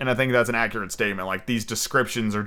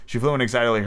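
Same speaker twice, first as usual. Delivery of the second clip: ordinary delivery, nothing marked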